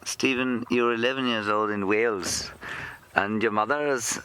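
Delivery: lilting attempt at Welsh; tentative, half-successful Welsh accent. Shown as a demonstration. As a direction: have a shaky go at a Welsh accent. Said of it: "I can't do a Welsh accent".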